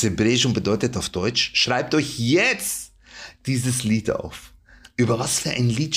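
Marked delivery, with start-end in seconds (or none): 1.5-4.5 slow solemn recitation. Acted. Solemn Torah verse quoted.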